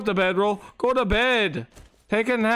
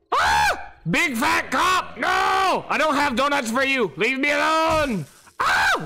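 panicked yelling; 3 semitones higher than usual. Real, not acted. Fleeing attacking cop.

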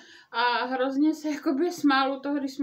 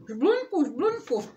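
repeated call, first name pitched up; mild hammed-up shouting of a name; 3 semitones higher, 4 dB louder, slower than usual. Kvak shouting at Žbluňk's house to wake him, mild call. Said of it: "pokřikoval Kvak".

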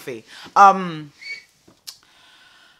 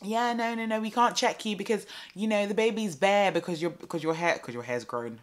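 higher, breezy refusal; mock patronising midwife; 5 semitones higher than usual. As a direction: dismiss her like she knows nothing.

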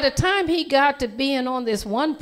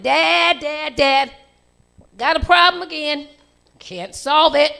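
louder, urgent calls to Dad; a boy rushing into the kitchen calling; calling urgently; 5 semitones higher, 7 dB louder than usual. Acted. Boy running in to his dad, calling urgently.

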